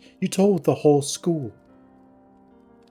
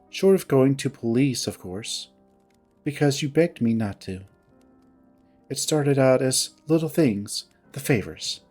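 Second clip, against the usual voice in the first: mildly curt, controlled grievance. Acted. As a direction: recount the betrayal with restrained reproach. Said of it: "her tone curt".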